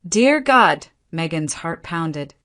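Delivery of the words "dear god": hoarse cry. A narrator's reading. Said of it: "His voice broke into a hoarse cry".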